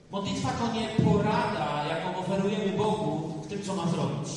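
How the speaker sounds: solemn reading. Shown as a demonstration. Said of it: "Mądrego człowieka".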